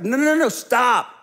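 mock urgent interruption; insistent stop. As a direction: cut them off sharply. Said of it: "And he's like".

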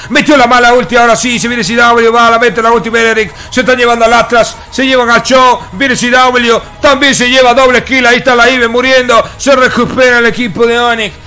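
excited. Real, not acted. Team fight play-by-play.

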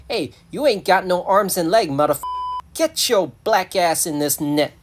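loud, forceful movie tough-guy tirade; Samuel L Jackson. Acted. Rescuer ordering the hedgehog into the net, loud tirade. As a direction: punch out each word, slowing for the final order. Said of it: "the rescuer is Samuel L Jackson".

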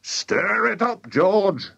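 excited shout. A narrator's reading. Mister Cranky orders George at the pan, excited shout. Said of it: "shouted Mister Cranky".

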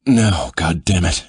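loud commanding order. A narrator's reading. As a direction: bark the order loudly. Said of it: "his commanding tone".

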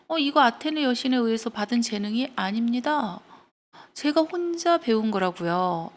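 mildly haughty retelling of a boast; cocky boasting. Acted. Arachne brags to the disguised goddess, cocky. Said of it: "건방지게".

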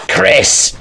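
voiceless mock villain cry; lightly imitated game villain; Albert Wesker. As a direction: call out the name as a mock villain. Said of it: "That's what he sounded like".

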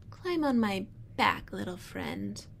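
slow, sly coaxing vulture. Acted. Vulture luring tortoise in story.

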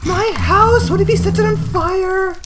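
high, very loud screams of despair; horrified screaming. Real, not acted. Gamer watching the ogre burn her house, horrified screaming. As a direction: wail over the burning house.

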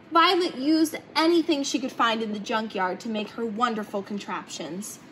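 plain reading voice

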